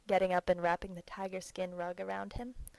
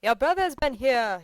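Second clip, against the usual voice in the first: grumpy loud complaint; 5 semitones higher, 13 dB louder than usual. A narrator's reading. Petritsky, just woken, grumbles.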